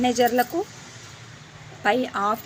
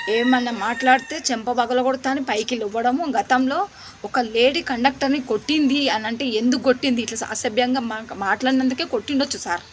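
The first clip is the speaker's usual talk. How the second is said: louder, heated complaint to the officials; indignant raised voice; 4 dB louder than usual. Real, not acted. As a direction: protest it hotly, voice raised. Angry complaint to depot officials. (ఆవేశంగా గట్టిగా ఫిర్యాదు)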